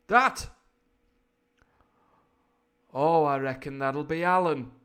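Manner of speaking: high rising question, then loud drawn answer; hammed-up pirate nonchalance; offhand villain's reply. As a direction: play Silver breezily explaining the scream. Voices Silver's offhand answer.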